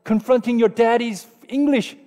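mock-indignant dad scolding, high-pitched; offended outburst. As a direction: play an outraged father telling off his daughter. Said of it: "so offended".

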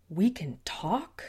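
haltingly; slow struggling words. Acted. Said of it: "garbled sounds".

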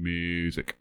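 weirdo voice. Retold or imitated. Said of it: "Like some weirdo".

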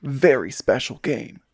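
slowed, drawn-out mock hero voice on "very special game"; fake Snake accent. Host milking the intro in a fake Snake voice. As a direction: stretch out "very special game" in a hammed-up soldier voice. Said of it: "really bad fake Snake accent".

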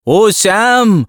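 high wailing cry of a name; a tearful, high call for help. A narrator's reading. Landlady bursting in on her lodger, crying out his name in tears. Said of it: "అంటూ ఏడుస్తూ ఇంటావిడ".

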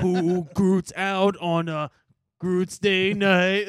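mock Groot voice. Riffing Groot joke.

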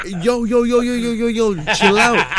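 a laughing plea to calm down; mock startled relatives. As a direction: play the uncle backing off, half laughing. Relatives calming swinging drunk nephew.

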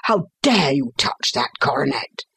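outraged cry, jumping high on the insults; screamed accusation. A narrator's reading. Father catching his son with the coronet, screamed accusation. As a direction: accuse him in a narrated scream. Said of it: "I screamed".

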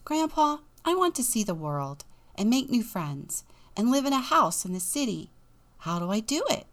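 Jack's keen questioning voice; young Jack. Acted. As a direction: voice Jack asking with hope. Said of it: "One day Jack said".

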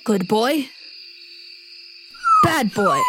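a dazed creature chanting good boy, bad boy; confused wolf voice. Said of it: "you just hear".

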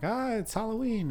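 high-pitched mock boo from a prankster friend; mock jump scare. Friend mocking a movie jump scare, mock jump scare. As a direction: leap out with a silly fake scare.

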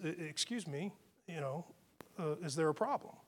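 soft, polite question; calm courteous reply; quietly polite response. Retold or imitated. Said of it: "that's a decent way to respond".

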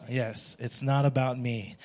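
quiet, slow it's not about me; a half-hearted congregation murmur. Shown as a demonstration. Pastor leading a quiet response, slow and soft. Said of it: "why was it's not about you louder".

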